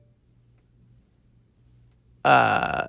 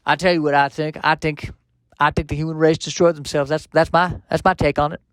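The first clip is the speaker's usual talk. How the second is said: put-on mild Southern accent, lightly done. Robot from the future musing on humanity in a mild Southern accent. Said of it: "kind of Southern accent".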